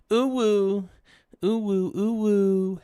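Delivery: high, loud "ooh, woo" hoots; silly hoot. Pretend. Streamer hooting back at chat, high and loud. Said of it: "repeats chat hoot".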